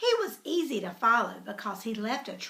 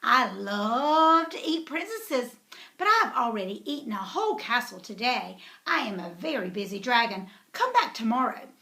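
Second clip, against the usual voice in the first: a hint of a bored, busy dragon. Dragon brushing the princess off. Dragon voiced in read story.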